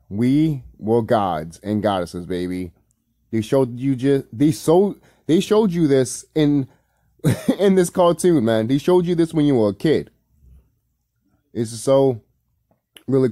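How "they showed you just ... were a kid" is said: excited. Real, not acted. Excited about the cartoon.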